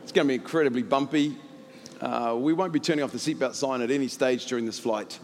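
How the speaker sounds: lightly voiced airline pilot; low, understated cabin announcement with pauses. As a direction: imitate a routine pilot update, filled with hesitations. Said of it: "the pilot comes on and goes".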